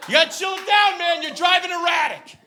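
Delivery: high, loud mock-bro shout; hammed-up white bro; whitest thing. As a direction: patronize him in a bro voice. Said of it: "kept saying it".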